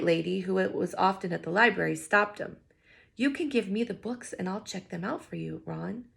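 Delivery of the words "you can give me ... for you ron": soft, kind offer; gentle. Acted. Librarian gently offering to help Ron. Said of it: "she said gently".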